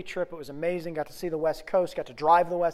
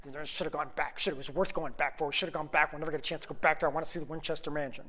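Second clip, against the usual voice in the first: muttering wife; 2 semitones lower, 5 dB quieter, faster than usual. Retold or imitated. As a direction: mumble it like a sulking wife. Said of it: "I listen to my wife muttering".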